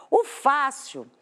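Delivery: fácil, slowly, with FÁ strongest; stress on penultimate syllable. Shown as a demonstration. Teacher splits the word for students, slowly stressing FÁ in fácil. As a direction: draw out fácil, leaning on its first syllable. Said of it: "Essa penúltima é a mais forte".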